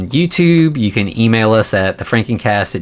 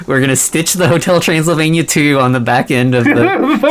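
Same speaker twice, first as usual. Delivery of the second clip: laughing; 5 semitones higher than usual. Real, not acted. Joking about horror film sequel.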